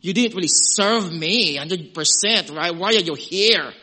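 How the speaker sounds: imitating a sarcastic scolding God. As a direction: sneer it like a disappointed judge. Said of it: "a very, um, sarcastic comment".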